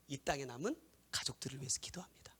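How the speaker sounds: soft, unvoiced solemn whisper; whispered preaching. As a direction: whisper the revelation hushed. Whispered sermon climax. (속삭이는 설교)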